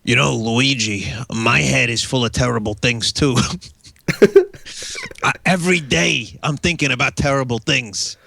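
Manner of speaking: Mario voice. Acted. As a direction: ham it up as Mario. Plays Mario to Luigi.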